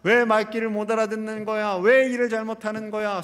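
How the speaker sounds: imitated irritated complaints; mildly exasperated string of complaints; annoyed grumbling. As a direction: act out griping about a coworker. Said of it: "원망과 불평과 짜증이 나올 때도".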